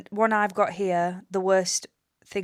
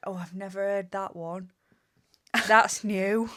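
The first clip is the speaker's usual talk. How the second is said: sarcastic. Retold or imitated. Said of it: "And I want to say".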